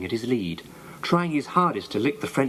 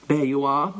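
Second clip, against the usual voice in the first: proud. A narrator's reading. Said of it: "said Susie proudly".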